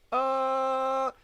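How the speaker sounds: loud high startled oh; shocked yelp. Retold or imitated. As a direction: jolt as if just zapped. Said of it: "And then I was like".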